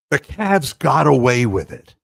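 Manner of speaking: loud triumphant gloat; loud gloating boast. Real, not acted. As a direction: crow it out proudly. Gloating about the win.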